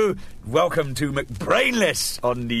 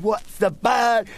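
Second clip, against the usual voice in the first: punchline voice; 7 semitones higher, much slower than usual. Retold or imitated. Patient's punchline, slowed high.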